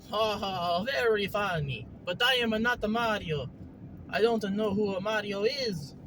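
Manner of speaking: lightly voiced Mario-style character, dryly put out; a hint of cartoon plumber; Hopalong, Mario-like character. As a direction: deny it in a Mario-like lilt. Plays Hopalong, denying he is Mario.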